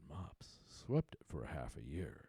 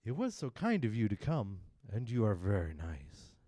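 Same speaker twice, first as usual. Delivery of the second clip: mock-polite walrus; 5 semitones higher, 10 dB louder than usual. Walrus mock-kind to oysters.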